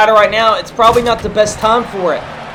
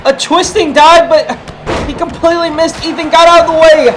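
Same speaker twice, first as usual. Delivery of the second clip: high excited play-by-play; wrestling commentator; 4 semitones higher than usual. Real, not acted. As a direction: call the dive with a raised voice. Commentator reacts to missed dive.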